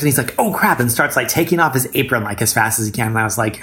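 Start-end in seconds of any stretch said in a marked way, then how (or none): 0.4-0.8 high-pitched imitation of a caught-out husband; mock panic. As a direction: blurt it high, imitating sudden alarm. Husband caught without the stamps.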